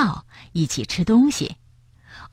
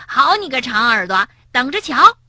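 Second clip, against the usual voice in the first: mock-threatening call; 5 semitones higher than usual. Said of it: "跳跳叫道".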